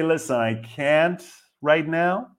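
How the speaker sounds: slow, measured polite brush-off; drawn-out, unhurried polite refusal; calm refusal. Shown as a demonstration. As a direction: take your time and turn them down gently. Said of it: "in a very calm manner".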